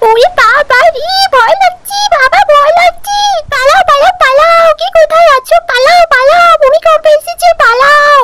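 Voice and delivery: high, urgent panicked cries; frightened panic. Acted. Mother in the shaking house, crying out in high panic. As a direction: scream at everyone to run, voice pitched high. Panic during earthquake, calling to flee.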